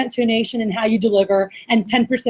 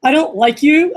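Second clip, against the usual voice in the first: higher, brighter smile in the voice; smiling voice; 4 semitones higher, 3 dB louder than usual. Shown as a demonstration. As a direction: say the dislike through a big smile. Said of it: "With a, with a big smile".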